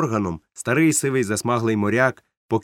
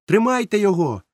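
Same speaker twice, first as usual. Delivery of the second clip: shouting; 9 semitones higher, 4 dB louder than usual. A narrator's reading. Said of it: "закричав я".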